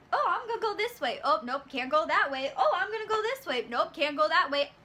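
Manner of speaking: sing-song imitation, high then dropping back; mocking oblivious dithering. Customer tries stepping around fallen Nancy, mocked dithering. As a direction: act out a clueless shopper changing direction.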